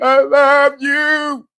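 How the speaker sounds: slow, high, drawn-out mock wail; crying. Crybaby professing love, exaggerated mock crying. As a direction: bawl each word out long, hammed up. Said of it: "Crying and spatting".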